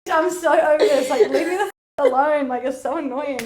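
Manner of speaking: half-laughing annoyed outburst; fed up. Retold or imitated. Retold fed-up outburst at pursuer.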